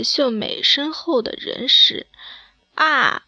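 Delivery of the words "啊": a short mock scream of fright, a little higher; startled scream. A narrator's reading. Lingling sees the faceless woman behind Xiumei, screaming in fright. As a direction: gasp out a scared "ah". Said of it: "大叫起来".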